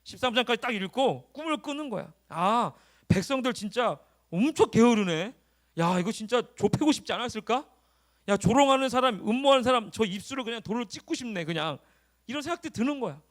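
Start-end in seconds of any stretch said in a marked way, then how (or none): 2.3-11.8 immersed reader reacting aloud; 실감나게 몰입한 독백. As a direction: react to the story as if living it. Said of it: "이러면서 막 이런 실감나게 읽어보는 거야". (실감나게 분개하는 독자처럼)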